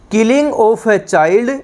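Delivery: very slow, each English word spaced for note-taking; slow dictation. Shown as a demonstration. Teacher dictating to students, very slow and spaced. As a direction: read the definition out word by word, slowly.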